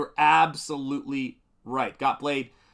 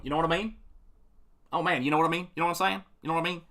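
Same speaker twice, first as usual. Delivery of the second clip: casual southern English "You know what I mean"; southern English accent; 3 semitones higher, much faster than usual. Retold or imitated. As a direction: mimic a London bloke asking it. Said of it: "people from the south going".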